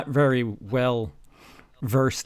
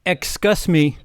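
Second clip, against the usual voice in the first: yelled; 3 semitones higher, 4 dB louder than usual. Acted. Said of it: "Yelled Mister Norris".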